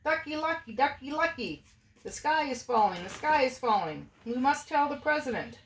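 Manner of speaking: high, frantic hen voice; clucking hen. A narrator's reading. Chicken Licken warns Ducky Lucky, frantic high hen voice. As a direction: cluck the warning in a panic. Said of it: "and clucked".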